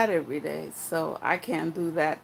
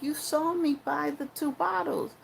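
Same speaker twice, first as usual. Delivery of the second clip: higher, insistent pleading point; raised voice; 4 semitones higher than usual. Retold or imitated. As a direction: argue your case, pitched up. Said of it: "I'm like".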